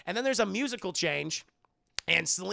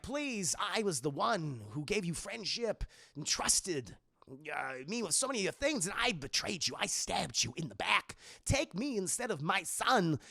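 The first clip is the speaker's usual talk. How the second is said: lightly voiced plea with halting rhythm; Max Schreck impression; 3 dB quieter than usual. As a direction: beg with swooping pitch and odd pauses, lightly imitated. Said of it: "Walken's Max Schreck, he's like".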